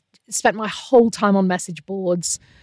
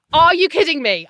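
high-pitched, indignant outrage; retold fury, stretched and emphatic; furious; 7 semitones higher, 4 dB louder than usual. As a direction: relive the outrage, voice flung upward. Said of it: "I was furious".

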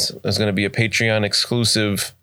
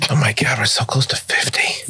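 excited whisper; 2 semitones higher than usual. Real, not acted. Excited aside.

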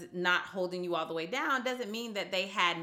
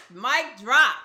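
excited; 4 semitones higher, 11 dB louder than usual. Real, not acted. Host cheering guest.

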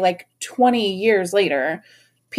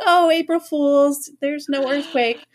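prankster mom; 6 semitones higher, slower than usual. Retold or imitated. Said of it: "she calls back, and she's like".

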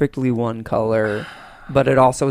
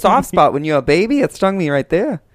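put-on character voice; 3 semitones higher, 4 dB louder than usual. Co-host playing the man stung by a bee, goofy. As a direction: explain it in a hammed-up voice. Co-host takes up the bad accent.

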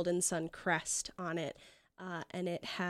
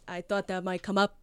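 put-on fantasy Long Island accent; Golden Sun accent. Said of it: "imagine I'm doing the Golden Sun accent".

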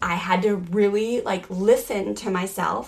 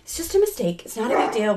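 calming self-talk; 6 semitones higher than usual. Retold or imitated. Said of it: "I was trying to remain calm".

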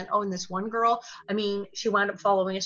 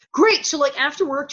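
high, loud, mock-chirpy chatter; breezy switch; 3 semitones higher, 3 dB louder than usual. Child actress chatting to co-star after cut, exaggeratedly breezy. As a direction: brightly drop the drama, pitched up.

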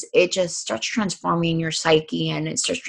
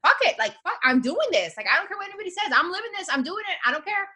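defiant self-talk; 11 semitones higher, 4 dB quieter, faster than usual. Shown as a demonstration. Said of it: "just saying".

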